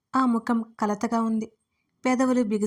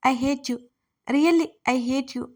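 tearful wail; 3 semitones higher, much slower than usual. Acted. Crying woman pushes him away.

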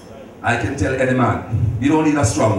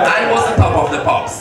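much higher repeat, pushed out; excited boast; 10 semitones higher, 4 dB louder than usual. Real, not acted. Bragging to the audience about his youth, excited higher. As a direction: crow about being the top of the pops.

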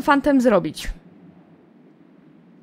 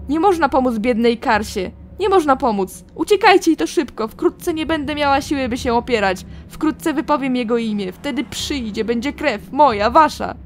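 haunted madwoman; 2 semitones higher, 3 dB louder than usual. Acted. Karsa warns the heroes to flee, haunted and loud. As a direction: voice of a woman losing her fight with madness.

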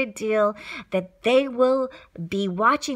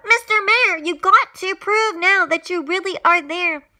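high, urgent raised voice; calling out; 6 semitones higher, 4 dB louder than usual. A narrator's reading. Horton begging the mayor for proof, calling out urgently. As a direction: call out loudly and plead. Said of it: "Horton called out".

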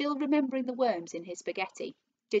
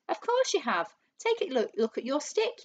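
insistent; 7 semitones higher, 3 dB louder than usual. A narrator's reading. Husband bullying his wife in argument.

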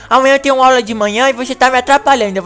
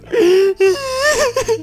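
fake sob-laugh; 12 semitones higher than usual. Sony Vegas crashed again.

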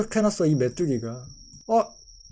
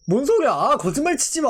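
incredulous; 4 semitones higher than usual. Real, not acted. Disbelief at the evolution chart.

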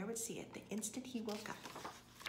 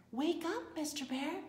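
louder, high-pitched call; raised voice, rising at the end; insistent wake-up call; 7 semitones higher, 4 dB louder than usual. A narrator's reading. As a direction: call out to rouse a heavy sleeper. Shakes him harder to wake him.

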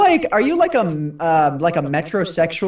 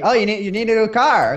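game show host; 2 semitones higher than usual. Retold or imitated. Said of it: "parroting The Price is Right".

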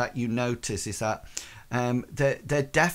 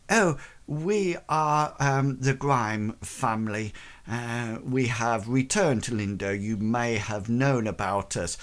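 regal lady. Acted. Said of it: "trying to come across very regal".

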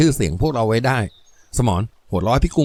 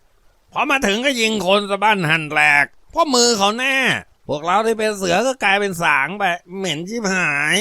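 put-on drunken slur; 8 semitones higher than usual. A narrator's reading. Ngaun slurring drunk boasts to his gang. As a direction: mumble it like a tipsy bully. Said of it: "ผู้พูดพูดด้วยเสียงอ้อแอ".

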